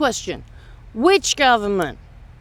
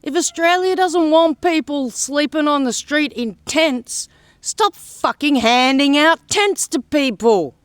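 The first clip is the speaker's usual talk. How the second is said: retold telling-off; 2 semitones higher than usual. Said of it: "I said".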